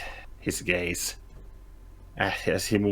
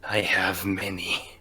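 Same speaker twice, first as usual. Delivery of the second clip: menacing whisper. Acted. Bosk speaking to a captive.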